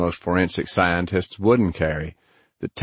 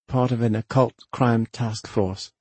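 put-on Australian accent; 4 semitones higher than usual. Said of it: "in her clipped Australian accent".

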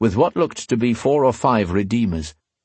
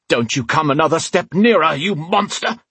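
high, terrified shout; 8 semitones higher, 3 dB louder than usual. A narrator's reading. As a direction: warn off a monster in panic. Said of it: "he shouted".

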